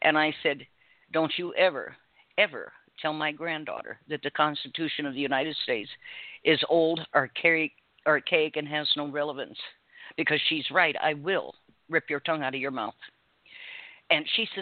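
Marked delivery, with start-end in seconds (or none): none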